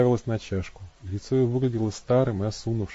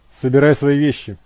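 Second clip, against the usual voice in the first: loud curt command; sharp order; 4 semitones higher, 10 dB louder than usual. A narrator's reading. Matt ordering Abby home, sharp and loud. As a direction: snap the order out. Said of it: "резко сказал он".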